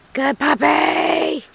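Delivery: drawn-out, slow happy shout of praise; excited praise. Real, not acted. Praising dog after agility run.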